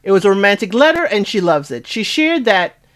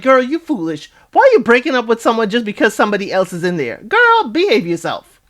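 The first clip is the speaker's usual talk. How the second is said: mock scolding; 3 semitones higher than usual. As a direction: scold her like an exasperated friend. Scolds a contestant for breaking up.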